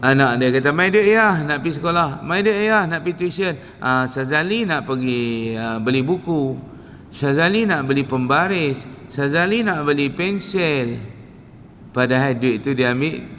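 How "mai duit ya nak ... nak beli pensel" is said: a son sweet-talking his father for cash, lightly voiced; wheedling son. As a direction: coax the money out of him like a pampered child. Son begging father for money.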